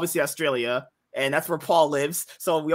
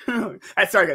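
laughing; 4 semitones higher, slower than usual. Real, not acted. Laughing at inside joke.

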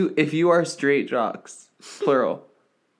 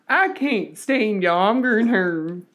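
man doing a woman's voice; 7 semitones higher than usual. Pretend. Repeating granny joke.

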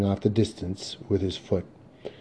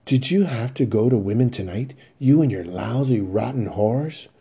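angry reproach; 4 semitones higher, 5 dB louder than usual. Acted. Mother berates sons about women.

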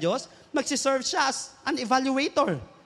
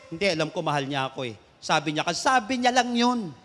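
lightly voiced excuse-maker, lower and quicker; defensive believer; 7 semitones lower than usual. Believer explains away the warning to the preacher, lightly defensive. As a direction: play a believer brushing off doubts, lower-pitched.

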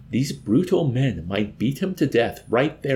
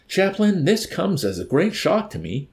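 high, louder wail of reproach; lamenting accusation; 10 semitones higher, 4 dB louder than usual. A narrator's reading. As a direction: accuse as if deeply wounded, pitched up. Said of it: "accused in a tone of heavy lamentation".

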